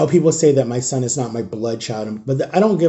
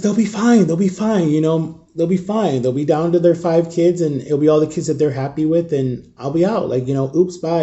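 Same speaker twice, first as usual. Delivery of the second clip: higher, flippant dismissal; shrugging off the family, mock breezy; 4 semitones higher, 3 dB louder than usual. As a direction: toss it off lightly. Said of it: "I was like".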